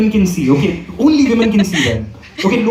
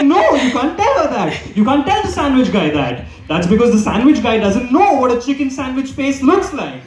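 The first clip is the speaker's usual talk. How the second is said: laughing protest; 4 semitones higher than usual. Retold or imitated. He argues with girlfriend, laughing.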